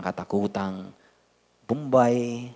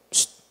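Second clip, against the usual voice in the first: mock shushing hiss. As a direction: shush your wife as a joke. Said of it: "Puro pabulong". (pabirong pagsitsit)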